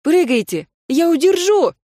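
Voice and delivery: high, loud urging call; teacher urging a frightened student to jump; urgent shout. Acted. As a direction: shout up to him: jump, I'll catch you.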